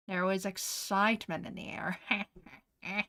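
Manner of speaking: mock eerie whisper. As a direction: whisper it like a campfire story. Dramatic whispered line.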